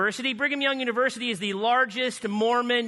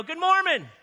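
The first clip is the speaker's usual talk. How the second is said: higher-pitched cheerful yell of greeting; 7 semitones higher than usual. Retold or imitated. Walking in and yelling a greeting at the Mormons, higher cheerful yell. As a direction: call out the door like a jolly greeting. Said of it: "I yell".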